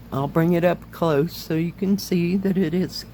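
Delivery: slightly hoarse, voice giving out; losing voice. Real, not acted. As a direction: talk through a tired, hoarse throat. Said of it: "I'm losing my voice".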